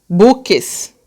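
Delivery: BUQUES said as two clear syllables; separated syllables. Shown as a demonstration. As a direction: sound out BUQUES as bu-ques. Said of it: "tem sílabas separadas".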